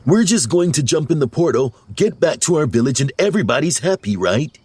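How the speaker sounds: high, eager little character voice; hopeful naive character. A narrator's reading. Clumsy checks the plan with the others, hopeful.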